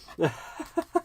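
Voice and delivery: short, high chuckle; light amused laugh; brief laugh. Real, not acted. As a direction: let out a quick giggle. Laughs before greeting a viewer.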